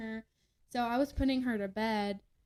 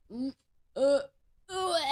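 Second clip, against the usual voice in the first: mock vomiting heaves; short grunts imitating someone throwing up; imitated retching; 3 semitones higher than usual. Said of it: "all I hear is".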